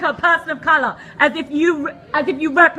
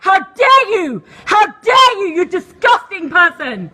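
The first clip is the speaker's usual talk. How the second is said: slow, furious "How dare you"; scolding him to his face; indignant shout; slower than usual. Real, not acted. Shouting at a man in a meeting.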